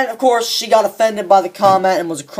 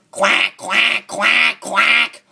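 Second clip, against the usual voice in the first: mock duck quacks; 3 semitones higher, much slower than usual. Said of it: "or a fucking duck".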